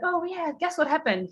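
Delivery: imitating a delighted client, pitched high; bubbly, high-pitched eagerness to share news; super happy. Client bursting to tell her trainer, super happy. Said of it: "like, super happy".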